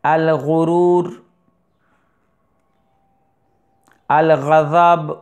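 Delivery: الغرور and الغضب slow with a rasped غ; ghain demo. Shown as a demonstration. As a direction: roll the غ of الغضب from the throat. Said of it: "غین کا مخرج". (غین کا مخرج)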